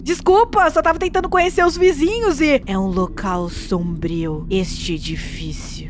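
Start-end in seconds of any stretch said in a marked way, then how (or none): 2.7-5.9 voz bem grave e sombria; voz de mendigo sinistro. Acted. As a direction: um velho ameaçador avisando baixinho. (voz grave e sinistra de velho)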